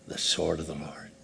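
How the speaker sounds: a hushed whisper instead of a shout; whispered battle cry. Acted. Preacher recalling Gideon's shout to the congregation, whispered. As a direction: breathe the war cry under your breath.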